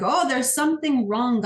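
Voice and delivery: lightly acted fear; mock fearful. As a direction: voice the kidneys' mild panic. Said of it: "this really big fearful state".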